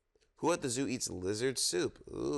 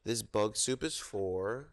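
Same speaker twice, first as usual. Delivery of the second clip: storytime reading. Acted. Reads zoo picture book aloud.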